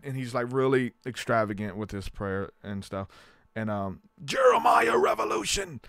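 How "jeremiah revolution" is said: preacher crying out to God at full voice, stretching out the word God; Lou Engle impression. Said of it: "the speaker does a perfect Lou Engle voice".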